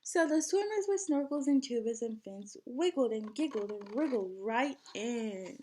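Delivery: lively storybook read-aloud; singsong picture book reading; reading to children. Acted. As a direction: read it like story time for a class. Teacher reads picture book aloud.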